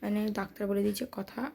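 barely whisper, the throat hurts. Real, not acted. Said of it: "আমি এত ধীরে ধীরে কথা বলছি কারণ আমার গলায় প্রচণ্ড ব্যথা". (গলা ব্যথায় ফিসফিস করে ধীরে বলা)

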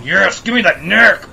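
slow, high greedy vampire; hungry vampire. Pretend. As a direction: savour it like a vampire. Voicing hungry Dracula.

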